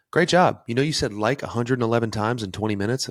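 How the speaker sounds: loud, bright mock praise; a teacher's cheery congratulation with a sting; hammed-up professor calling out a student; imitating professor. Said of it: "he would go".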